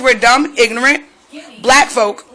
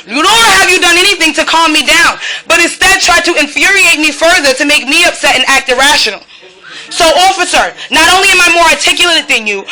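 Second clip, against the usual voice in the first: raised, rising anger at the officers; heated confrontation; 3 semitones higher than usual. Real, not acted. Woman berating officers through her door, angry and raised. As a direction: lecture them with mounting fury.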